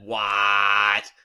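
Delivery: loud startled what; shocked. Acted. Twilight hearing about spider babies, loud startled blurt.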